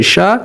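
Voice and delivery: शाह said with a bouncing echo on the end; qalqala bounce. Shown as a demonstration. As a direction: let the शाह ring and shake at the end. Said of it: "इस तरह". (शाह को क़लक़ला के साथ हिलती आवाज़ में)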